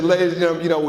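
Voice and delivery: lightly put-on Texas twang; Bush Texas twang. Speaker imitating the president addressing the audience, light Texas twang. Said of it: "I wish I could do a Texas twang".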